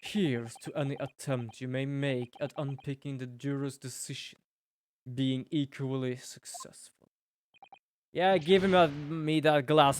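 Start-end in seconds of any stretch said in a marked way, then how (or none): 0.0-7.1 lightly voiced stern judge reading the verdict; a hint of pompous courtroom gravity; courtroom character voice. Judge addressing the court, a lightly stern voice.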